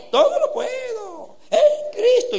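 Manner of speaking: high, hammed-up chanting voice with a laugh; mocking sing-song voice. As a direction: parody a showy private prayer, way up high. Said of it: "eso no es burla mía".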